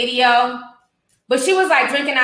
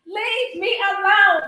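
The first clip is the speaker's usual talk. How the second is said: mock sing-song; 6 semitones higher, slower than usual. Mocking again after the clip.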